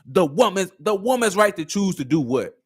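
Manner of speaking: mimicked slogan turned into a question; pointed slogan challenge. Host wants the sentence completed, mocking challenge. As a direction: echo the slogan, then demand its ending. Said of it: "start completing that sentence".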